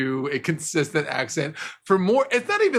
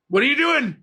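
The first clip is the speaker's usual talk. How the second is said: higher, louder mock wife; a hint of a shocked wife; 8 semitones higher, 4 dB louder than usual. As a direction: play the startled wife, hammed up. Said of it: "I don't know why she's talking like that".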